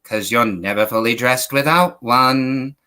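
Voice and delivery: charmer voice. Retold or imitated. Answering his wife's call in a crooning voice. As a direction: croon it like a smooth flirt. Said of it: "when I answer the phone like that".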